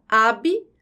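"abrupto" split into ab, rup, to, with long pauses; syllable by syllable. Shown as a demonstration. Teacher dividing both consonant clusters, syllable by syllable. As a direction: cut "abrupto" between B and R and between P and T. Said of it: "quando eu separo as sílabas de abrupto".

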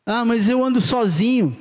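slow, whiny voice of a lazy believer; mock excuse. Pastor mimicking a church member's lame excuse, slow and mocking.

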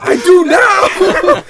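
high, loud, drawn-out mock protest; slow, hammed-up comeback while cracking up; laughing retort. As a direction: stretch it out through laughter. Re-enacting defiant answer while laughing.

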